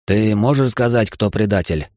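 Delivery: almost pleading. Acted. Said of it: "почти попросил".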